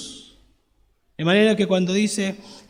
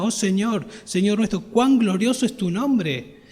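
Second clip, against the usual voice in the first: exclaiming; 3 semitones higher than usual. Shown as a demonstration. Psalmist exclaims to the Lord over his glory, exclaiming in awe. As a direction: lift it into an awed exclamation. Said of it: "Y entonces él exclama".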